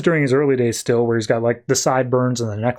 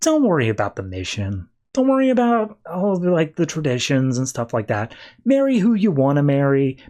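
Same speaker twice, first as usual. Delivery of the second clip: gentle motherly advice; 4 semitones higher than usual. Retold or imitated. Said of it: "her mom basically saying".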